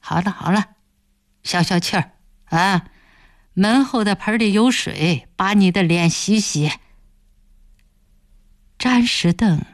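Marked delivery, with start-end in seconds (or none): 0.0-6.7 a hint of cold calm; unmoved and calm. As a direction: say it as if nothing happened. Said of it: "声色不动地说着". (声色不动地平静说)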